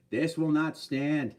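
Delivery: put-on slow, drawn-out Boston politician accent; Mayor Quimby. Streamer playing on viewer's remark, Boston politician accent. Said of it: "Sounds like Mayor Quimby".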